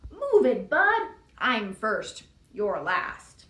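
grocery truck yelling at Blue; rude shout. Acted. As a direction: shove him aside with your voice. Grocery truck honks rudely.

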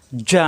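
যা as a firm ja, tongue on palate; hard j. Shown as a demonstration. Teacher drills learners on the letter, যা with a hard j. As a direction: press mid-tongue to the palate for যা. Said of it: "শক্ত হবে".

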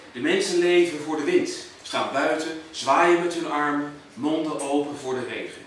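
measured poetry reading with deliberate pauses; poem recital. Acted. Poet reciting to an audience about Houten, measured recital. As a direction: recite it line by line, weighing each phrase.

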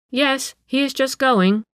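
high, slow reply; called-back answer. A narrator's reading. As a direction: answer up the stairs, slowly and high. Niece calls back up.

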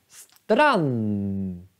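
strand said with the N held long; listen: strand. Shown as a demonstration. Teacher asks students to listen, holding the N. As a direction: lean on the N of strand, clip the A. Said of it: "Men om ni lyssnar".

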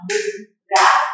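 "Buraco" chopped into bu, ra, co; three separate teaching beats on "Buraco"; syllables with claps. Shown as a demonstration. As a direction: pause after each syllable of "Buraco". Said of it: "gosta de ensinar assim? Bater palma?".

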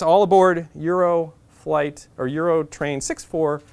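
slow, drawn-out mock announcement; conductor announcement. The conductor announcing the train to Budapest, slow and formal. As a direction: imitate the train conductor over the speaker. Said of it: "And the conductor says".

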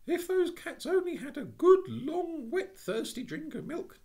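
put-on high, loud, pleading child; an eager little girl persuading the burglar; eager persuasion. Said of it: "with eager persuasion".

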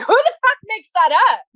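high-pitched incredulous mock yell; retold yell. Retelling yelling at a friend in the airport, mock yell. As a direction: exclaim it high, as if yelling in disbelief. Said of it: "I think I yelled at you".

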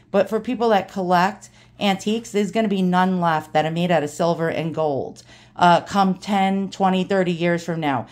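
lightly imitated old Brooklyn straight talker; Ronnie's New York accent. Dad's friend confides a warning, light New York accent. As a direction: put on a touch of old-timey New York. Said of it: "total New York accent".

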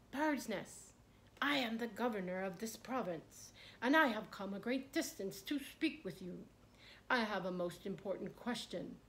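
calling up to the tree. Acted. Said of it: "the governor shouted".

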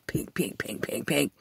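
unvoiced, dying away pink after pink; whispered fading thuds. To his dad, whispering the last bumps of the fall. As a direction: let each pink fade into the distance.

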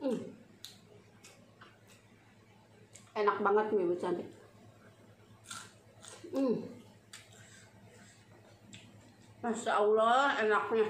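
chewing while talking; talking between bites; mouth full. Real, not acted. Seen 3: chews and puts food in mouth throughout labelled words.

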